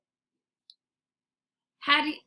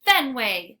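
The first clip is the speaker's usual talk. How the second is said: scolding; 7 dB louder than usual. Acted. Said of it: "she scolds".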